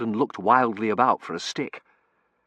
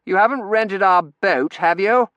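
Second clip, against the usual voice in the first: put-on higher, louder chatty young man; cheerful young Terence; 10 semitones higher, 8 dB louder than usual. A narrator's reading. Terence chattering to the narrator on the street, cheerful young voice. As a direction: rattle on cheerfully, full of beans.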